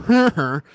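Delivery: high-pitched grunted "huh, huh"; wordless filler noise. Shown as a demonstration. Co-host shows how to skip the word, high wordless grunts. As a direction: make a short high noise in place of a word. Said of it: "You just have to go".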